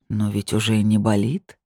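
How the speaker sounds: purring. Acted. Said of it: "проурчал он".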